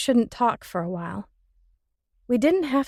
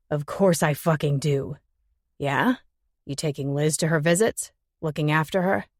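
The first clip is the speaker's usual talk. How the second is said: male voice; 4 semitones lower than usual. Acted. Jimmy berating Ben.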